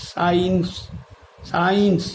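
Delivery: সায়েন্স opening on a single s; silent c. Shown as a demonstration. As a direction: say সায়েন্স distinctly, no k after the s. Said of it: "সি এর উচ্চারণটা কিন্তু হচ্ছে না, হচ্ছে". (সায়েন্স-এর শুরুতে শুধু স)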